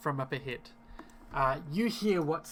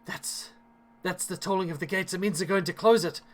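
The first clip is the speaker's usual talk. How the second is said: a touch of worry, slightly raised pitch; worried; 3 semitones higher, 3 dB louder than usual. Acted. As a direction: voice mild urgency as a worried villager. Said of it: "looks up with worry and says".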